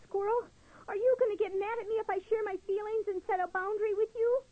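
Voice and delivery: put-on high, anxious child-like voice; a nervous little turtle forcing the words out; shy young turtle, voice high and trembling; timid little turtle. Louis voiced, high and fast.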